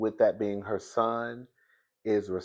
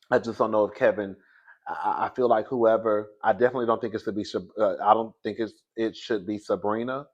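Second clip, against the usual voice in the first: talking around a retainer; slightly lisped speech through a retainer; wearing a retainer. Real, not acted. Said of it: "I have my retainer in".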